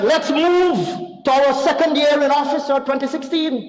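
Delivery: lightly hammed-up rival announcement; mock school skit. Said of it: "as she would in a school skit".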